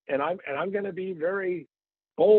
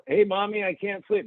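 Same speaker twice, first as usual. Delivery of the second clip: lightly voiced child, pitched up; a hint of a kid pleading at bedtime; higher-pitched mock child voice; child calling Mommy; 5 semitones higher than usual. Acts out a sleepless child.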